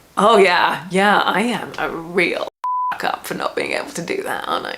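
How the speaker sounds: mocking, tongue-in-cheek, facetious sarcasm with swooping pitch. Answering a comment about communicating needs: facetious. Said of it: "so I'm being facetious".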